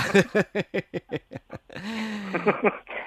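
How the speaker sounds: soft, high-pitched chuckling; amused laugh. Real, not acted. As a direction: keep chuckling softly for a few seconds. Laughing at caller's joke.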